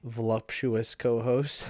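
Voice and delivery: slow sultry drawl; sultry narrator. Pretend. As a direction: stretch it out seductively. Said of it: "my sultry voice".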